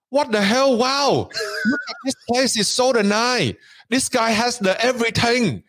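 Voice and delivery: high-pitched, amazed mock Asian accent. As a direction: gush in awe with a put-on Asian accent. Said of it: "in an Asian accent".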